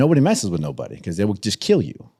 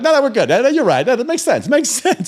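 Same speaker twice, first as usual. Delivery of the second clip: much higher, hasty and placating; scared backing down; 7 dB louder than usual. Retold or imitated. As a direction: squeak out a nervous retreat. Crowd backing down again.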